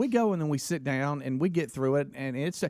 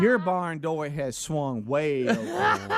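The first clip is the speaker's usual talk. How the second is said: laughing; slower than usual. Retold or imitated. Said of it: "and she said".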